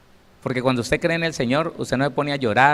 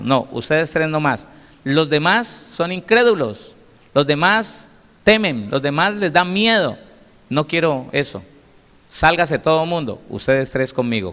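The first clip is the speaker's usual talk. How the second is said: firm Jesus; 2 semitones higher than usual. Acted. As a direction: send the doubters out with firm command. Preacher voices Jesus choosing three.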